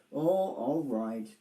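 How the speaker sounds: slow, deflated; a touch of disappointment; disappointed. Acted. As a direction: give in sulkily. Roger disappointed.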